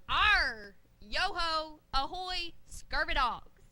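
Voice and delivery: hammy pirate phrases; pirate talk. Acted. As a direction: ham up pirate slang. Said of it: "how to talk like a pirate".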